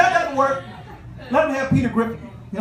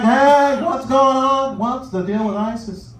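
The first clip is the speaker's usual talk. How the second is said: Jerry Seinfeld impression; slower than usual. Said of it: "Be like".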